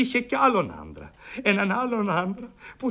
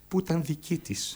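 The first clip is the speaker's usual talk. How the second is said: whisper; 5 semitones lower, 5 dB quieter than usual. Acted. Hushed end of the accusation.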